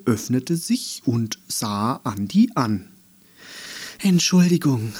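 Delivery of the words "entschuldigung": höher, erleichtert fallendes „Entschuldigung“. Acted. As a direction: aufatmend wiederholen. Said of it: "sagte sie noch einmal und war erleichtert". (Andi ist froh, dass das Auge sich öffnet)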